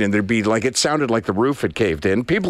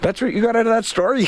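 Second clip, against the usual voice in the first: incredulous; 10 semitones higher than usual. Real, not acted. Incredulous reaction to partner.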